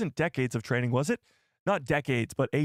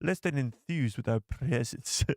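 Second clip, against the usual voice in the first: a lightly raspy, slowed Andor officer; Sergeant Linus Mosk voice. Pretend. Streamer copying the clip for a super chat, slow mock rasp. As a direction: drag the line out like a grim imperial sergeant. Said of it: "he has got a very raspy voice".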